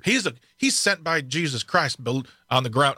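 light mock Southern accent. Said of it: "I don't know why I'm doing a Southern accent".

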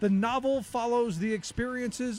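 measured documentary read; scripted history narration. Acted. Narrator telling listeners about the Boston police strike, scripted history narration. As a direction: read it as a radio history feature.

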